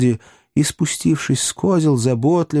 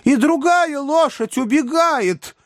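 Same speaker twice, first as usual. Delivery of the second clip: very high, drawn-out cry of alarm; dismayed exclamation. A narrator's reading. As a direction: cry out slowly as disaster strikes, pitched far up. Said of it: "воскликнул несчастный мистер Пиквик". (протяжный крик ужаса)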